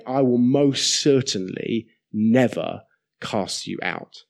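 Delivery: measured assurance, leaning on "most certainly never"; emphatic promise. Retold or imitated. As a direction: set "never" apart with a pause, then ease down. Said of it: "it's to bring emphatic emphasis to that".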